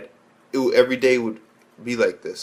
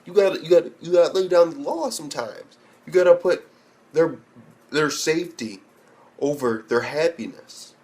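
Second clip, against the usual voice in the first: tough lecture; 4 semitones higher than usual. Pretend. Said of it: "I would have been like".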